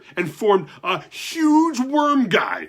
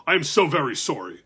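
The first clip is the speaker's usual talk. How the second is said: apologetic giant; 4 dB louder than usual. Acted. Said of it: "said the giant".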